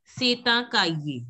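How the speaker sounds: Seta Caillé linked, slow; linked words. Shown as a demonstration. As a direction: model Seta Caillé as "say-ta-kai-yay". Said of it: "you have to link the word here".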